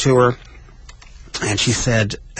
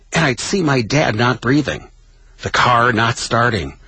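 higher-pitched, measured story narration with pauses; dramatic reading; 3 semitones higher than usual. Acted. Host reads Billy Crystal's funeral memoir to listeners, dramatic reading. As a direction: read it as a poignant, dramatic memoir.

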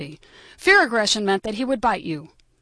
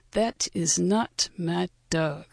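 grumpy deadpan; 2 semitones lower, 3 dB quieter, much slower than usual. Retold or imitated. Grumpy desk clerk deadpan reply.

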